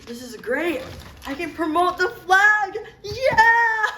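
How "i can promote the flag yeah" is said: louder and higher, bursting with joy; excited cheer. Acted. Host finally allowed to advertise, cheering with glee. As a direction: throw both arms up and cheer it out. Skit host thrilled to promote flag.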